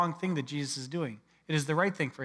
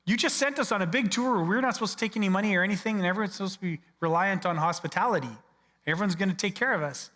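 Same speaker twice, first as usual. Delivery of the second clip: flustered protest; 4 semitones higher than usual. Retold or imitated. Disciples voiced protesting to Jesus.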